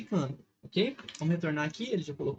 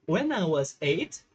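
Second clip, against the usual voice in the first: slow teaching read; 3 dB louder, slower than usual. Shown as a demonstration. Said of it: "teacher reads the English".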